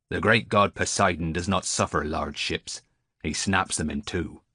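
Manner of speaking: lightly voiced old seaman, earnest; a hint of a weathered sailor's solemn warning; superstitious old sailor. Old sailor telling Gershom about Poseidon, mildly solemn.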